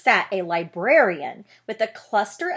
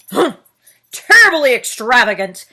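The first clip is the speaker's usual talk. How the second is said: louder, booming disapproval; loud bear; 2 semitones higher, 12 dB louder than usual. Acted. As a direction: Bear scoffs too loudly in the library, booming. Bear exclaims too loud.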